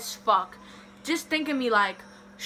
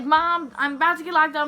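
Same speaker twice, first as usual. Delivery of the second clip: higher, retold plea to mom; mock tearful pleading; 5 semitones higher, 4 dB louder than usual. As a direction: imitate crying down the phone to mom. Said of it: "I'm crying. I'm on the phone".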